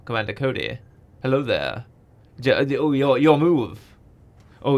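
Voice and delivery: lightly voiced calm Jedi master, barely off his own voice; a hint of a wise mentor, easygoing; Obi-Wan Kenobi impression. Podcaster doing a light impression of the Clone Wars Obi-Wan. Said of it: "my Obi-Wan Kenobi impression".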